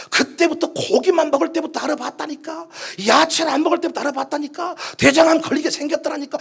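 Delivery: whiny mock I-told-you-so; mimicked blaming gossip. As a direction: tut over someone's illness like a know-it-all. Mimicking people who blame the sick. (알아봤다며 탓하는 말투 흉내)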